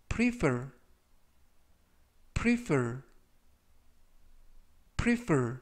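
section said slowly and clearly; slow model pronunciation. Shown as a demonstration. Teacher reading vocabulary aloud for review, slow and clear. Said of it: "제가 천천히 세 번씩 읽어드리고요".

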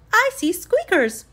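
high, loud call from above; yelling. A narrator's reading. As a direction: shout down to the class through the ceiling. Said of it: "Stanley yelled".

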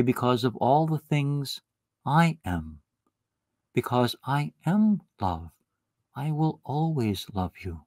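slow, gentle promise of love; tender assurance. Acted. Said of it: "He would say".

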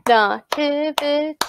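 "nativity" in four measured beats; syllable by syllable. Shown as a demonstration. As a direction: separate each syllable of "nativity". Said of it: "Clap that with me now".

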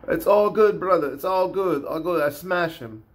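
a hint of Caucasus fighter's broken English; lightly imitated Caucasus accent. Showing how fighters shrug off opponents, light imitated Caucasus accent. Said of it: "That's how they talk".

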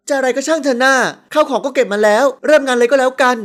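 put-on exasperated older sister; still simmering. A narrator's reading. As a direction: cut the whining short crossly. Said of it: "ด้วยอารมณ์ที่ยังคุกรุ่น".

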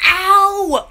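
short mock "ow" of pain; demonstrated yelp of pain. Shown as a demonstration. Telling viewers about the pool step, a mock pained "ow". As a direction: show the viewers the little yelp. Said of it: "like that".

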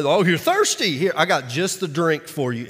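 a hint of sneer, lightly voiced soldier; mocking. Soldiers mocking thirsty Jesus, light sneer. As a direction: tease him with fake kindness. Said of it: "in a mocking way".

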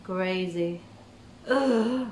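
ordinary talk, nothing marked

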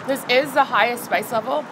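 slurping while talking; words muffled by food; mouth full of noodles. Real, not acted. Seen 0: Noodles hang from her lips while she slurps throughout the words.

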